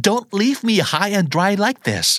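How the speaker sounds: high-pitched, wailing complaint; distressed pleading. Acted. Stranded caller tells a friend they are lost, distressed pleading. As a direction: complain helplessly with the pitch right up.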